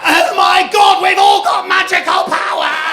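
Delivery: loud, high, thrilled yell; triumphant shout. Retold or imitated. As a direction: shout it like you just found magic powers.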